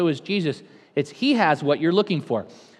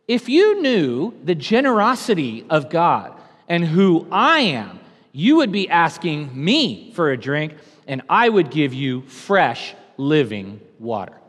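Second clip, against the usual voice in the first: voicing Jesus; 4 dB louder, slower than usual. Jesus's words, preached loud and slow.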